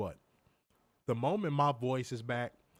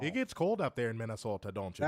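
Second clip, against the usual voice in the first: mock Minnesota accent; 3 semitones lower than usual. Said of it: "their Minnesota accent".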